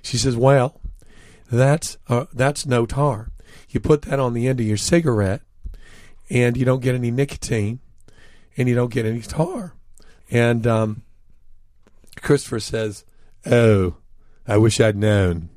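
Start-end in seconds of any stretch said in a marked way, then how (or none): 0.4-9.8 a touch of thick Southern twang; Southern accent. Retold or imitated. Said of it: "in a thick Southern accent". 13.4-15.5 louder, falling mock regret; mock-rueful quote, set off by pauses; wry punchline. Retells friend's wry punchline.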